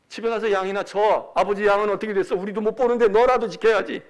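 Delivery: dismissive scolding order; acted, mildly forceful telling-off; browbeating older brother. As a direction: send your kid brother packing. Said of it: "이러고 막 윽박 지릅니다".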